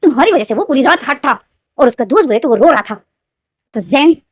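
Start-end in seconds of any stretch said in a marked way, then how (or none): 0.0-2.9 Hindi: गुस्से में ऊँची तीखी आवाज़; angry retort. Retold or imitated. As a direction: fire the question back in outrage. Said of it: "तुम गुस्सा क्यों हो रहे हो".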